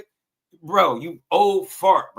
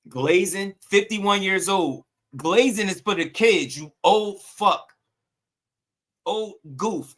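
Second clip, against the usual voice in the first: higher, drawn-out disbelief and scorn; indignant scolding; 4 semitones higher than usual. Real, not acted. Streamer berating an older chat viewer over slang, indignant scolding. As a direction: berate him in a raised pitch, dragging out the insults.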